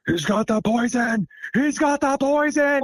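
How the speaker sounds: high, slow, menacing repeat of the warning; angry voice. Retold or imitated. Angry forest voice warning the logger he carries poison. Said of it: "this other angry voice comes over and it sounds like".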